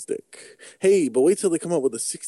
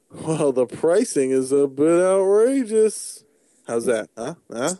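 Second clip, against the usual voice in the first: crazy voice. Pretend. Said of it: "Is that why you're doing the crazy voice?".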